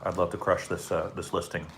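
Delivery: talking while chewing crunchy food; words through a crunchy mouthful; crunching chips. Real, not acted. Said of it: "I apologize for all the crunching".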